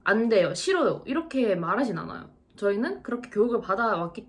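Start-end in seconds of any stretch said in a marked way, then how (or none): 0.0-1.0 curt mock refusal. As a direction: imitate a blunt, cut-off refusal. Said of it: "딱 안 된다고 끊어서 말씀드리진 않아요". (딱 끊어서 거절하는 흉내)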